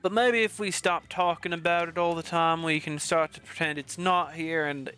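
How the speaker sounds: attempted Russian accent; lightly put-on Russian accent for a huntress. Huntress urging the group about the fire, in a loose Russian accent. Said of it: "put a Russian accent on Huntress".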